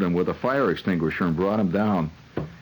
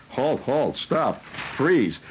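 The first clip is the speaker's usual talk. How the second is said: cop; 6 semitones higher, much slower than usual. Acted. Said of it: "when cops used to say".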